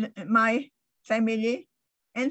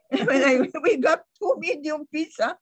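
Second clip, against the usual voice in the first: laughing while telling; 5 semitones higher than usual. Real, not acted. Laughing at her own pizza story.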